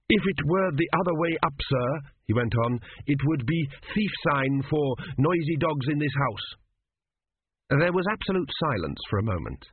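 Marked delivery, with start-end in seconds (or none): 0.1-6.5 eager student. Acted. Student recovers with answer.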